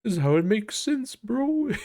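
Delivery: high, smug explaining voice; mock bro. Mocking people who explain things, high and smug. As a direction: explain like a know-it-all bro. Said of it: "How people are like".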